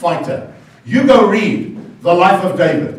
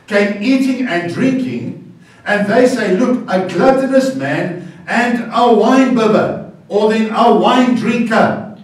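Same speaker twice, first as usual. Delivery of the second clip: slow reading; 4 semitones higher, slower than usual. Retold or imitated. Reading Jesus' words slowly.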